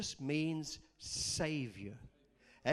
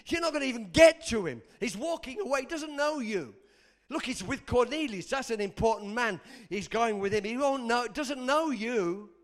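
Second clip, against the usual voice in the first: the devil; 4 semitones higher, 7 dB louder than usual. Acted. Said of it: "what the devil would have said".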